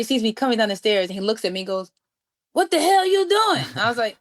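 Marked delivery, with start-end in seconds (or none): 2.5-3.6 high, drawn-out, louder exclamation; retold outraged astonishment; startled challenge. A musician seeing her come down armed with a sax, startled.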